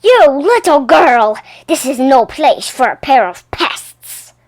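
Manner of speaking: wag a finger and scold her; stern scolding. Acted. Patron scolding Poppy, a touch of stern anger. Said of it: "The opera house patron scolds Poppy".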